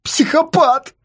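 high-pitched outburst of abuse; furious name-calling; angry insult. Acted. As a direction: hurl the insult, voice jumping up. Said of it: "высказался он по адресу психолога".

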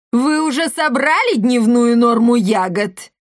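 a domineering boss lady demanding the quota; bossy commandant. Acted. Commandant's voiced role. (властная комендантша, громко)

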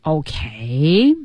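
drawn-out, halting "Okay, I wished"; slow, hesitant lead-up before a big announcement; Marty. Acted. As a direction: stretch each phrase and pause, building suspense. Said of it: "Marty就说".

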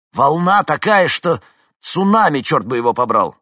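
loud, high swearing yell; panicked shout. A narrator's reading. Vincent shouts to the dispatcher about the wave, panicked yelling. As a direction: curse out the size of the wave.

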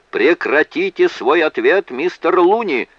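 high, loud judge's yell; yelling order. A narrator's reading. Judge ordering the witness to stop, yelling. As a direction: cut the witness off at full voice. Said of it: "завопил Нус".

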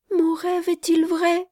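put-on earnest child's plea; fervent. A narrator's reading. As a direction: ask it with all your heart. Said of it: "d'une voix si fervente".

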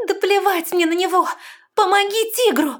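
high, loud desperate shout; desperate outburst. A narrator's reading. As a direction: cut in, frantic. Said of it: "в отчаянии перебила Лестра". (отчаянный крик)

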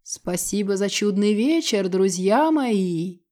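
voice carried on wind. Acted. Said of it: "ветер донёс до них".

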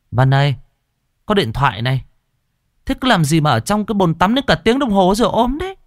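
a mother grumbling through the bathroom door, quick; hurried high-pitched nagging from the mother. A narrator's reading. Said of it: "Tiếng cằn nhằn của mẹ". (giọng mẹ cằn nhằn, nhanh)

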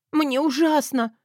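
drawn-out sobbing cry. Acted. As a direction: wail it out slowly. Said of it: "прорыдала я".

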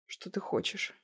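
soft, whispered, forced out; strangled whisper. Acted. Heroine gives in to her blackmailer, strangled whisper. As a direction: squeeze the words out, defeated. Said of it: "не своим голосом выдавила я".

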